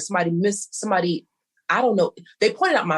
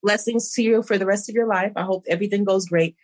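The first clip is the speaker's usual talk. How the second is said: sarcastic farewell; 2 semitones higher than usual. Retold or imitated. Blocking a rude acquaintance, sarcastic cheery goodbye. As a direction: wave them off with fake sweetness.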